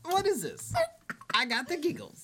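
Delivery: high, giggly voice; giggles. Pretend. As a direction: talk through the giggles. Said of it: "segment is called The Giggles".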